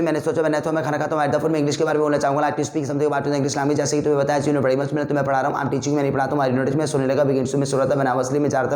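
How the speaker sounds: nonstop run of Hindi and English on a level pitch; rapid-fire drill. Shown as a demonstration. Teacher demonstrates the one-breath Hindi-English round, rapid-fire. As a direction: rattle off both languages without a pause. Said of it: "मैं speed में नहीं बोल पा रहा".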